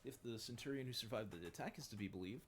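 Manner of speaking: high, loud, anxious soldier reporting; nervous underling voice. Acted. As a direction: cower as you report bad news. Voicing a nervous subordinate.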